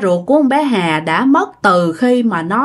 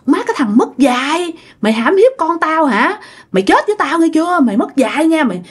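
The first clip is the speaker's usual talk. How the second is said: higher-pitched mock threat without real shouting; retold angry hollering; 6 semitones higher than usual. Uncle threatening the accused man, mildly acted angry hollering. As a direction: act out a stubborn man's scolding at moderate volume. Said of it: "vẫn nhất quyết la làng".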